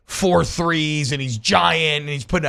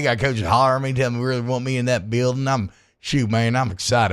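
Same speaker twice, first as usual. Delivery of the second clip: put-on country accent; 3 semitones lower than usual. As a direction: lay on a fake country accent. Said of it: "my fake country accent".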